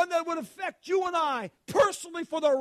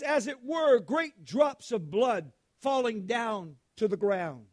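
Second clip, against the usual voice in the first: scripture reading. Acted. Preacher reading Gethsemane scripture to the church, solemn. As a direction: read it to the congregation with weight.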